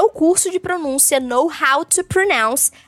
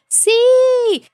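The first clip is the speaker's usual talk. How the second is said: excited yes; 11 semitones higher, 6 dB louder than usual. Real, not acted. Cheerful agreement to own point.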